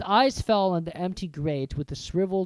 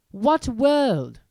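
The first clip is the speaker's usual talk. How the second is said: bewildered Harry; 8 semitones higher, 8 dB louder than usual. Acted. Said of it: "Hagrid looked as if he was about to explode".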